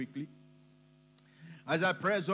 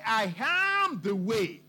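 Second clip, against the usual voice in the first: slow declaration, AM held long; bold declaration; 4 dB louder, slower than usual. Retold or imitated. Preacher quotes Jesus speaking to the disciples, bold declaration. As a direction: stretch AM out boldly, no apology. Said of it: "that kind of boldness to make that declaration".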